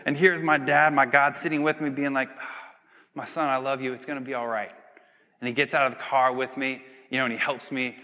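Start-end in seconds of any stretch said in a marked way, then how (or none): 2.4-4.7 much softer, gentle fatherly reassurance; tender comfort. Retold or imitated. Father comforting his son after the car crash, much softer tender voice. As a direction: softly console your child.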